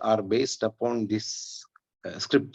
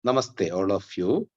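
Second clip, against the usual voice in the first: slightly raised voice, checking it carries; a bit louder; 2 semitones lower than usual. Real, not acted. Teacher asked to speak up, greeting a bit louder. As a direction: greet the class a little more loudly. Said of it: "can you speak a bit louder?".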